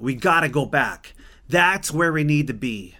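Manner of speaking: urging a friend to turn the car round; assertive. Retold or imitated. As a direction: insist we turn back now. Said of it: "so assertive or that tone of voice".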